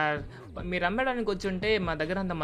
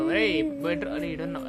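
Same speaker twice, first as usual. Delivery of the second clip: 1 surprised call; 8 semitones higher, 3 dB louder than usual. Acted. Uncle calls out on finding him.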